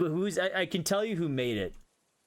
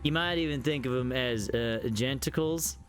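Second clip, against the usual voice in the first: put-on terrible southern accent. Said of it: "my terrible southern accent going".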